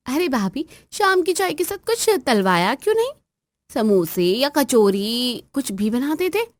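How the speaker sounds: high, whiny complaining demand; spoilt sister-in-law. Acted. Sister-in-law nagging her bhabhi over tea, high whiny voice. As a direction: whine about the missing snacks. Neelam complains about snacks.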